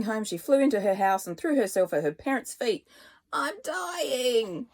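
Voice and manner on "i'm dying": higher, dramatic lament; despairing. A narrator's reading. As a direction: wail it to her parents. Throws herself at parents' feet.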